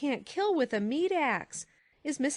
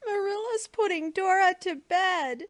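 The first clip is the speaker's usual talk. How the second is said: put-on high, loud childish wail; acted tearful child voice; sobbing small boy; 9 semitones higher, 6 dB louder than usual. A narrator's reading. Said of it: "sobbed Davy".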